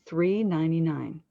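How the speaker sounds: emphasize the word three; three stressed clearly before ninety-nine. Shown as a demonstration. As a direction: give three its own clear weight. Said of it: "she needed to emphasize the word three".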